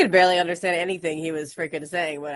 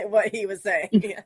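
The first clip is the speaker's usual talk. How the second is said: laughing; 4 dB louder, much slower than usual. Real, not acted. Laughing at a baffling speech.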